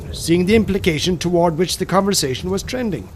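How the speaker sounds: plain reading voice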